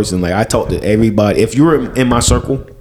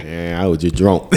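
lower, offhand brush-off; dismissive excuse; 5 semitones lower, 4 dB quieter than usual. Acted. Drunk partner excusing last night, dismissive. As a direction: shrug it off in a low voice.

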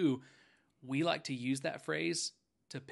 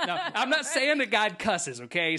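laughing; 8 semitones higher, 8 dB louder than usual. Real, not acted. Laughing disclaimer to amused co-hosts.

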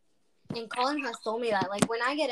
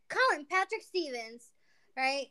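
mock scolding, name pitched up; full-name scolding; 2 semitones higher than usual. Showing how she'd scold Colin, mock reprimand. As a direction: call him out by his full name. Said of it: "pulling out your full name".

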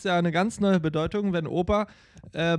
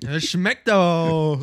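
mock delight; 3 semitones higher, 7 dB louder, slower than usual. Mock praise of food.

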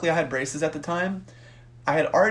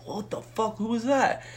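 higher-pitched, alarmed "who was that"; startled outburst; 7 semitones higher, 3 dB quieter than usual. Retold or imitated. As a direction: retell it as a startled exclamation. Startled at seeing the fight.

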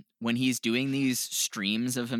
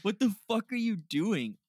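shocked disbelief; 10 semitones higher than usual. Retold or imitated. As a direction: recoil in horror at what you're seeing. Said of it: "And I'm like".

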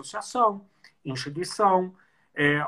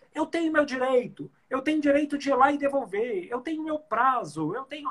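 higher, insistent entitled customer; indignant consumer; 6 semitones higher than usual. Retold or imitated. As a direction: voice a customer claiming his rights. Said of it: "a gente na nossa cabeça coloca assim".

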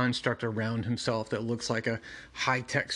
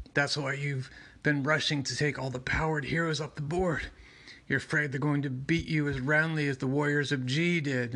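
choked-out Batman; 3 semitones higher than usual. Retold or imitated. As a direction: squeeze the words out like a hand is on your throat. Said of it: "Batman is being choked out saying".

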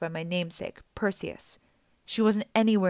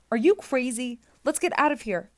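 alarmed disbelief; 5 semitones higher than usual. A narrator's reading. Percy balks at beheading Medusa.

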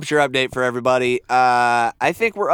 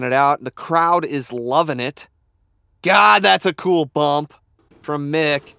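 announcer voice. Acted. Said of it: "Mike, uh, vamp".

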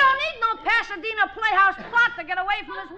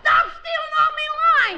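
mock complaint; 5 semitones higher, 3 dB louder than usual. Real, not acted. Complaining they steal his cue.

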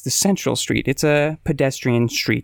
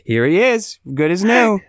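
mock alien salesman; 4 semitones higher than usual. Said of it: "They're like".

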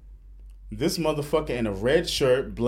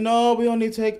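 higher-pitched imitation Asian accent; mock Asian accent; 6 semitones higher than usual. Salon lady talks to customer about payment, imitated Asian accent. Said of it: "I'm only doing the Asian voice".

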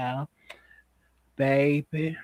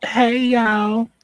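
excited greeting; 5 semitones higher, 5 dB louder, much slower than usual. Real, not acted. Guest's loud greeting.

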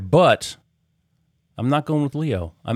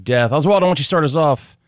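host announcer; slower than usual. Acted. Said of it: "show host announcing segment".

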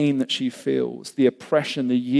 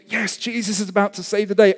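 raised, hopeful cheer; eager anticipation; 6 semitones higher, faster than usual. Acted. Onlooker expects Jesus to save the day, eager excitement. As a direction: build hope toward the final word.

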